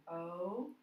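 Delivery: "R-O-B-O-T" sound by sound, long O, short final o. Shown as a demonstration. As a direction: sound out "R-O-B-O-T" in separate pieces with pauses. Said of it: "let's read this word and make sure".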